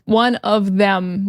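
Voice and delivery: careful full form, each word clear; slow and careful. Shown as a demonstration. Teacher slowing down the full phrase for learners. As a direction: say it out slowly for learners. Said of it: "When we talk fast".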